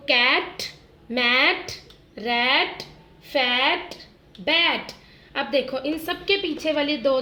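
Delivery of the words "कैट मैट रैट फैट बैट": words called out louder for the class to echo; louder call-and-repeat chant. Shown as a demonstration. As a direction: say each word out loud so they repeat it. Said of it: "फिर से ma'am के साथ बोलो".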